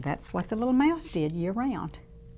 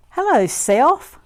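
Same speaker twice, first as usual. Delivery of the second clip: little mouse greeting; 7 semitones higher, 9 dB louder, slower than usual. Acted. Mouse greets reflection in puddle.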